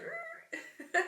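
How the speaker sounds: high squealed sound effect with a laugh; imitated noise. Sound effect for a sudden reversal.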